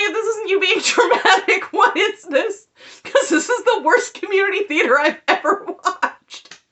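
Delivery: high, loud, laughing exasperation; mock outrage. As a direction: ridicule the overacting with hammed-up disbelief. Mocking Robin's dramatic performance.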